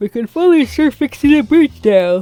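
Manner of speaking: yawning while speaking. Playing through a game at four thirty a.m., yawning while speaking. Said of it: "sorry, I'm yawning".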